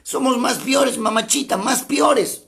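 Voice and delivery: teasing Peruvian colloquial tone; folksy Peruvian slang. Retold or imitated. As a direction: play up the Peruvian saying with mamachita. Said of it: "como dirían algunos aquí en el Perú".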